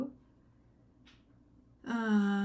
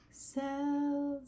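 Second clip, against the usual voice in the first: Sells sung on the lower me note; 6 semitones higher than usual. Shown as a demonstration. Teacher showing the lower me note. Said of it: "one of them's a lower sound".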